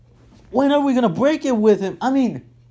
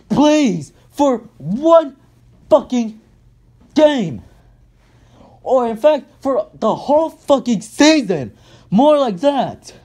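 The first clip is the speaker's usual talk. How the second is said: exasperated yell; 3 semitones higher, slower than usual. Real, not acted. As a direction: yell your plea at the coach. Pleading yell at the coach.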